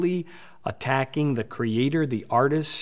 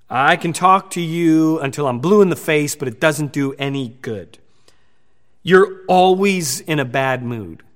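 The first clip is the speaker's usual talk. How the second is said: louder, exasperated nagging at a loved one; harsh scolding; 6 dB louder than usual. Acted. Husband snapping at his spouse, fed up and loud. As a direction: scold like you've had enough. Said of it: "here's some things that we shouldn't say".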